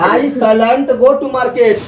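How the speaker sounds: very slow, stretched words; slow teaching model. Shown as a demonstration. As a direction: spell out the negative slowly. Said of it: "यानी देखो, shall not".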